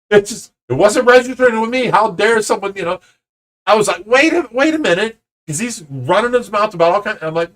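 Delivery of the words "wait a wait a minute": high-pitched, incredulous halt; acted disbelief. Father interrupting the man who hit his kid, acted disbelief. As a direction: retell a stunned interruption.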